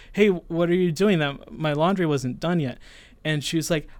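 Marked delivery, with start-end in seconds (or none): 0.1-2.8 confronting her. Retold or imitated. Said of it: "I was like".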